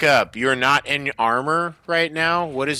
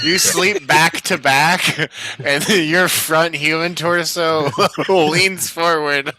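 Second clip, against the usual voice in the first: slow, giggling description; laughing while talking; 4 semitones higher, 4 dB louder, slower than usual. Real, not acted. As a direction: speak through laughter.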